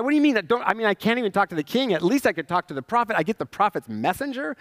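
indignant Naaman. Retold or imitated. Proud general snubbed by prophet's messenger, indignant.

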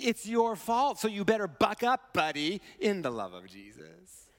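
mild parody of a scolding pep talk, dropping away at the end; pious finger-wagging, lightly played; mock blaming. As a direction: lightly imitate a preachy buck-up lecture. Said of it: "kind of a way of saying".

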